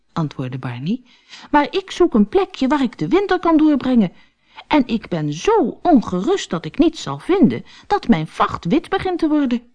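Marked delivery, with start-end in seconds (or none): 1.5-9.6 high, pleading small-animal voice; anxious little stoat. Acted. Stoat begs the otter for a winter spot, high and anxious. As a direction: beg for help, fretting. Barney's voice in story.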